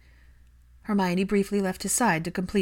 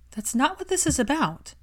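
insistent; 8 semitones higher than usual. A narrator's reading. Hermione insisting.

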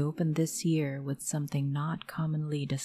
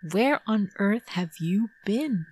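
sharp, raised scolding; angry mother; 6 semitones higher, 4 dB louder than usual. Retold or imitated. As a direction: scold the lost child, high and loud. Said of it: "My mom was livid".

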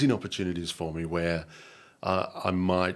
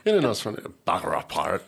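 pirate voice; faster than usual. Pretend. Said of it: "Slipped into the pirate voice".

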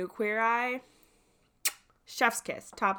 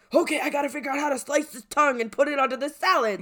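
serious contestant; 6 semitones higher, 6 dB louder, faster than usual. Retold or imitated. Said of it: "everyone's like".

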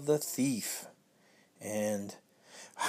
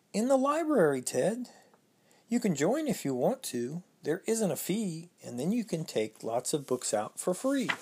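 put-on child voice; 4 semitones higher than usual. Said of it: "Peter replied".

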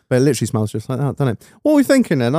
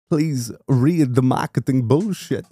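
slow, flat robot-like read; a failed Stephen Hawking voice; bad robotic voice; much slower than usual. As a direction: drone it out like a computer. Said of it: "That was really bad".

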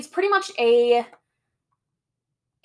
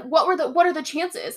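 higher-pitched mock innocent question; mocked clueless boyfriend; 6 semitones higher than usual. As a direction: imitate the boyfriend playing innocent.

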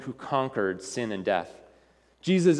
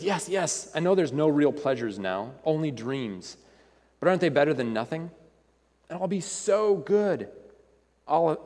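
wheedling lizard. Acted. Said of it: "starts speaking loudly and quickly".

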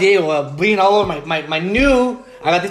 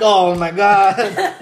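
amused retold dismay; much slower than usual. Retold shock at sucker punch.

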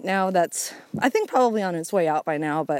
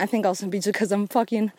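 puffing while hiking uphill; talking between breaths on a climb. Real, not acted. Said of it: "You can hear it".

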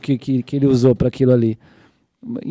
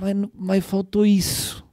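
slow, soft, slightly raised voice; longing regret; 4 semitones higher, 6 dB quieter, slower than usual. Acted. Jesus, longing for the rich young man, gently regretful. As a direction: let it out slowly, wishing he had stayed. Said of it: "Jesus desejou esse cara assim".

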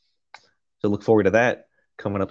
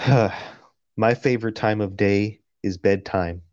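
creepy slow reading. Pretend. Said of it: "sounds like those Indian dudes".

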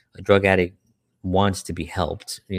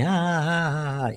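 mock laughter; 8 semitones higher than usual. Crowd laughing at the joke.

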